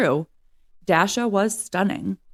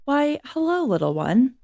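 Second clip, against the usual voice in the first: a gentle big man, first word much higher; gentle greeting; 7 semitones higher than usual. A narrator's reading. Scarred big man gently greets sleeping Bear, tender. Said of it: "his scarred face as gentle as could be".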